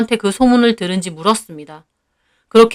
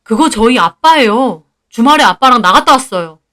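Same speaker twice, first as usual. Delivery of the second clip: exasperated protest, a touch louder; fed up, setting the record straight; 3 dB louder than usual. Acted. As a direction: insist on it, mildly exasperated. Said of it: "환장할 것 같은 기분으로 말했습니다".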